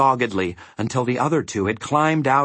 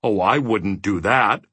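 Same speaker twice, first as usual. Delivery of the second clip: thoughtful. Acted. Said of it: "said the giant thoughtfully".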